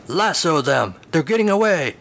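rising urgent orders, voice climbing high; grumpy horse yelling to lasso cattle. Acted. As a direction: hurry him along. Horse urging chase.

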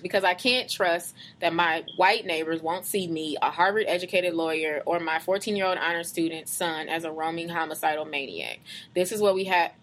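measured, deliberate read-aloud voice; reading a post aloud. Acted. Reading a Facebook post to a co-host, measured read-aloud. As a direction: read it out slowly and evenly. Rereads the last sentence aloud.

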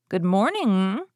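lightly voiced cheeky boy, drawn-out greeting; a bold, sing-out greeting; bold young Jack. A narrator's reading. Jack greets the ogre's wife, bold as brass.

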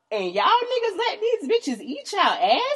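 high, slow, scandalized squeal; teen disbelief. Retold or imitated. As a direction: sound appalled at the cousins. Teen self shocked at cousins.

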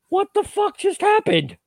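very high, drawn-out baffled squeal; high-pitched mock bewilderment at normal volume; acted disbelief. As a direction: replay your stunned reaction, slowly and way up high. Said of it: "I'm sitting there looking at this like".

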